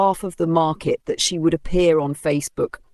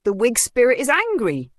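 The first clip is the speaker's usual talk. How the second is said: much higher, alarmed outcry; high panicky shouting; frightened shout; 9 semitones higher than usual. Acted. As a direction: warn the crowd in panic. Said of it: "One woman shouted".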